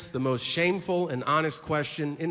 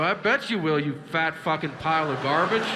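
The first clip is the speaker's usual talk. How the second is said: mocking insult; 3 semitones higher than usual. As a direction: sneer the insult down at the customer. Mock In-N-Out worker insult.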